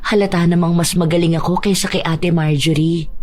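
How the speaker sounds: lightly teasing temptress; seductive Badet. Badet urging reluctant Noel to give in, seductive. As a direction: coax past his refusal, lightly seductive.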